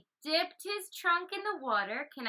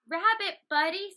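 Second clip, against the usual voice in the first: elephant voice; 6 semitones higher, 5 dB louder than usual. Acted. Elephant voiced in kids story.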